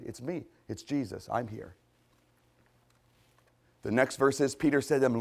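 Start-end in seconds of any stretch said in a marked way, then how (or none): 0.0-1.8 much softer, lowered and calming; gentle reassurance. Acted. Jesus to frightened disciples in the boat, soft reassurance. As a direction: quietly settle their fear.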